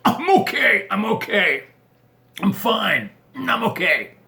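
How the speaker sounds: high, put-on husband insisting he's fine; mock-brave brushing off. Husband telling wife he's fine, high put-on voice. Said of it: "And you're like".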